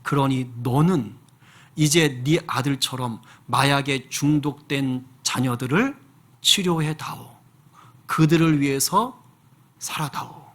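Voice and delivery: slow, tender inner voice; Spirit speaking. Retold or imitated. The Spirit calling the father to a new mission, hushed and slow. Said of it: "성령께서 그분 마음 가운데 이렇게 말씀을 하시더래요".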